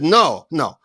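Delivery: put-on stern Indian-accented scolding, rising in pitch; comic stern guru with an Indian accent. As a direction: correct a foolish pupil as an Indian guru. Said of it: "he looks at me sternly".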